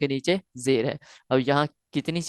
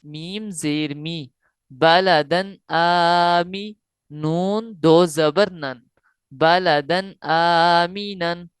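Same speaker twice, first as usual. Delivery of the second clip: slow syllable-by-syllable tajweed reading; spelling recitation; much slower than usual. Shown as a demonstration. Teacher building the word up for students, slow recitation. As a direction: spell and join the word slowly. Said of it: "हमजा खड़ा जबर आ".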